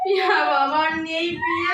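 crying. Acted. Widow crying for her daughter.

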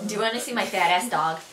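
Buffalonian demo sentence; Buffalo accent. Shown as a demonstration. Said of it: "Now for some sentences for you guys".

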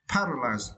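"Paralyzed" with the weight on "Par"; teacher's model of "Paralyzed", first syllable stressed. Shown as a demonstration. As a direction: lean on the opening syllable of "Paralyzed". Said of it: "need to stress the first syllable".

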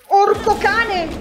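high, loud, drawn-out "Orco cane!"; startled mild oath; loud exclamation. Real, not acted. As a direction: blurt it out in shock, slowly. Sudden exclamation.

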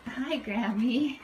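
slow, clear "Hi, Grammy"; drawn out for a toddler to copy; slow modeling for toddler. Shown as a demonstration. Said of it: "Can you say hi".

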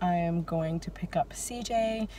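talking while chewing gum; words around a wad of gum. Real, not acted. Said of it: "I'm sorry, I'm chewing gum".

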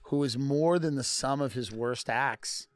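sway the jury like a slick lawyer; a hammed-up closing argument, slowing for effect; mock defense attorney. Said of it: "he's acting like the attorney of a rapper".

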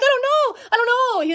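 very high, loud protest; frantic retold reply. Own frantic answer acted out.

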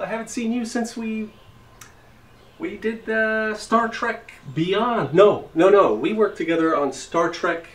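high, loud, overexcited actor-buddy greeting; pumped-up celebrity bro. Pretend. Dad at the park posing as a movie star, loud and high. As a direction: greet him like a starstruck fellow celebrity, way too pumped. Fake Chris Pine persona resumed.

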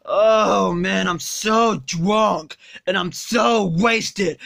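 put-on low slurred drunk voice; sluggish, drunk and lazy; Homer Simpson.

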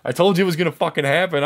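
high-pitched, indignant outburst; acted-out exasperated rant at the bystanders; mad at them. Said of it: "I'm, I'm mad at them".

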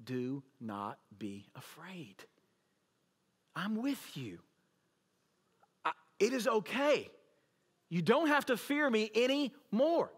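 gently calm a frightened soul; Jesus comforting the fearful, tenderly; tender reassurance. Retold or imitated. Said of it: "he looks at you and says".

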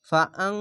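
long nasal ng ending on আং; anusvara-like ghunnah. Shown as a demonstration. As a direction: say আং with a held ng, like Bangla anusvara. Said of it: "এখানে Bangla one স্কোয়ারের মতো উচ্চারণ হবে।".

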